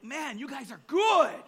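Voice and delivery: amused retold aside through laughter; laughing admiration. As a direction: crack up in amazed praise.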